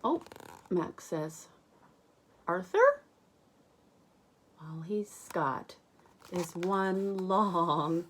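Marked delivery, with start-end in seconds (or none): 2.5-3.0 high calling voice, rising; calling Arthur. Acted. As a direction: call out to him brightly, much higher. Max calls out to Arthur.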